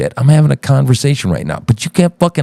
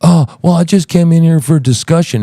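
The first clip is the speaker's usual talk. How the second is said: higher-pitched fake innocence; mock victim; 4 semitones higher than usual. Host mimics guest claiming innocent discussion, mockingly. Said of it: "all of a sudden a fucking victim".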